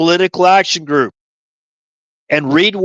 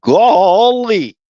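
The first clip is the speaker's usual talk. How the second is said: higher, drawn-out country "Golly"; quick sample of the hick private's catchphrase; amazed bumpkin exclamation, lightly done; Gomer Pyle; 4 semitones higher than usual. Shown as a demonstration. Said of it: "Gomer Pyle".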